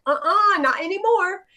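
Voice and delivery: high, sassy uh-uh; defiant refusal. Retold or imitated. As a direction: shut it down with sass. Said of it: "and then I'm like".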